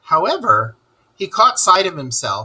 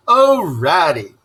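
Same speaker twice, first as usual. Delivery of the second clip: lightly voiced Toad, slow and a little higher; Toad crying out; 5 semitones higher, 5 dB louder, slower than usual. Toad crying out to Ratty on rescue, slow and plaintive. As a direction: Toad pleading to his friend, drawn out. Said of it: "he cried".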